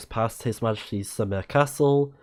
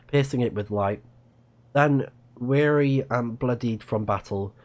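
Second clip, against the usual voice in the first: story narration. Acted. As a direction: tell the legend like an epic prologue. Continues reading the lore.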